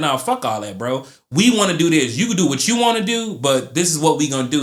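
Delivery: acted, stubborn, defiant childlike screaming outburst. Explaining selfish impulses, imitating a screaming inner child. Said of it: "your internal child is screaming like".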